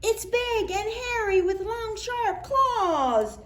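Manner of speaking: high, loud fearful warning; scared voice. Acted. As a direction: warn them in fright. Scared animal describing monster.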